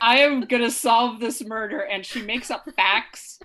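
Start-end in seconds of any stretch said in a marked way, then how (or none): 0.0-1.8 emphatic vow, a bit louder; mock-serious determination. Actress taking a silly murder case seriously, mock-determined. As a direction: imitate someone earnestly taking it all too seriously. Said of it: "she's trying to take it seriously".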